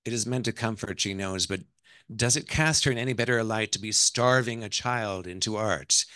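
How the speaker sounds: novel read aloud, questions lifted; story narration. A narrator's reading. Author reads the wife's doubts to an audience, story narration. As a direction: narrate her inner questioning.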